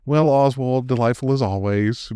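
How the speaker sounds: a smug Brit acting superior; mock British accent. British banker greeting Oswald with lightly mocking British accent. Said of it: "playing the whole British".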